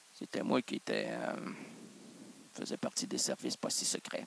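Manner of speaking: very low, hushed spy voice; secret agent voice. Acted. Host playing the secret services table, low and hushed. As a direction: rumble it like a covert agent.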